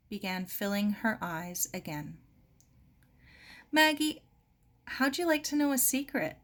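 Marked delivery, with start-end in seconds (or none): 3.7-6.4 bright, higher, eager voice; leaning in to share a secret; a girl bursting to tell a secret. Acted.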